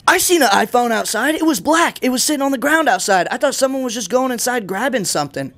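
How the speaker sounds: a lady's voice, retold high and light; imitating a lady. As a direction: pitch way up to play the woman overheard on the phone. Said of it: "I just hear a lady in the background".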